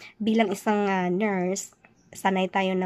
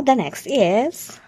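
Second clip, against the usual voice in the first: whisper; 3 semitones higher, much slower than usual. Real, not acted. Hushed lead-in to next question.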